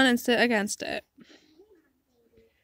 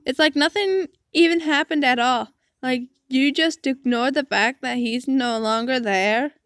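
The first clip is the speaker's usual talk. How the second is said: acted daughter's angry protest, mildly raised. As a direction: argue back at a father with some heat. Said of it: "Do not raise your voice at me".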